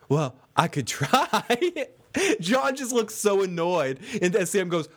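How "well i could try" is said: meek Sam. Acted. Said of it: "And Sam goes".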